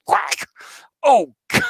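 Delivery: high, laughing yelp of thrill; thrilled exclamation. Retold or imitated. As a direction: yelp it out like the rush of a catapult launch. Thrilled on carrier launch.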